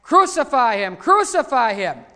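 loud preacher's retold crowd cry. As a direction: call it out like the mob demanding death. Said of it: "they all began to cry out".

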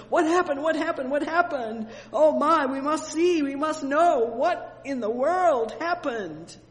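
high, loud, breathless crowd asking over and over; excited crowd. Acted. Astonished people running together ask Peter what happened, high and loud. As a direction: cry out like an astonished crowd rushing in.

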